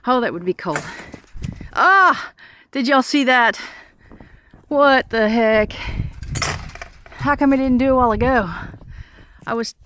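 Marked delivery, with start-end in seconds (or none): 1.7-8.5 startled surprise. Real, not acted. Snow suddenly fell on him.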